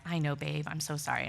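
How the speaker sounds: low, soft consoling voice; gently soothe, imitating a caring husband; sympathetic husband. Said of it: "my husband so empathetically".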